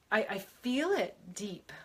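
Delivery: slow, breathy whisper; whispered confession. Real, not acted. Confessing deep emotion.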